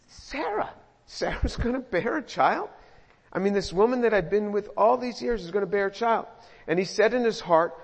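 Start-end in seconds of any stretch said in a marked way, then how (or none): 0.1-6.3 incredulous. Retold or imitated. Abram laughing in disbelief.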